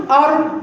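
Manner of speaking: أر with one quick tongue tap; single-tap r. Shown as a demonstration. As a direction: roll the r of أر once only. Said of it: "بقت راء".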